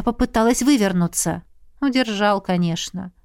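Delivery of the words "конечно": ordinary delivery, nothing marked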